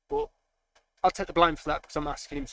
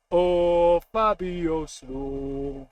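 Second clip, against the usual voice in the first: excited; 3 semitones higher, 8 dB louder, much slower than usual. Real, not acted. Hyped sub coming on.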